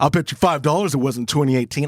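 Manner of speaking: normal talking voice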